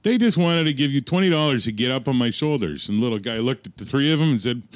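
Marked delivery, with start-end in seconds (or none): 0.0-2.9 excited retelling. Retold or imitated. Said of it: "He goes".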